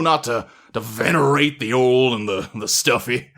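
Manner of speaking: a lightly voiced stately old butler; grand, formal butler speech. The butler addresses the assembled masters, lightly voiced and stately.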